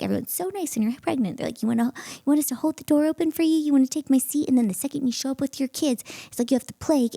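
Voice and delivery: high-pitched indignant ranting, picking up speed; exasperated mock tirade; retold rant. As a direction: rattle off the grievance, worked up. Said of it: "I went on this whole rant".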